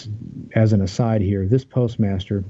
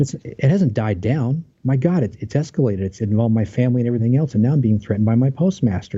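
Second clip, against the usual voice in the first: mildly exasperated, pitched up a little; retold exasperated protest; 4 semitones higher than usual. Employee protesting to the investigator that it has escalated, mildly exasperated. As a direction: protest as if retelling your own disbelief.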